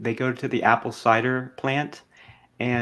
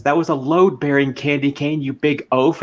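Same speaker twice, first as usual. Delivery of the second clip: louder scolding witch; 3 semitones higher, 5 dB louder than usual. Retold or imitated. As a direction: snap at him like a witch. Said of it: "the witch says".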